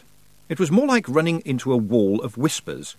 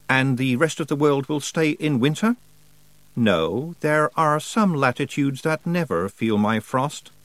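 lightly voiced cold winter spirit, slow and proud; Wintersmith voice; 5 semitones higher than usual. A hint of the Wintersmith telling Tiffany his plan. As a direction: speak as a frost god pleased with himself.

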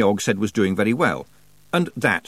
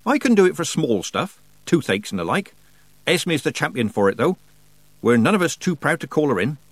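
lightly voiced, higher Nanny; homely old witch; 7 semitones higher than usual. A narrator's reading. Nanny explains witchcraft to girl, lightly homely. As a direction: explain the craft matter-of-factly.

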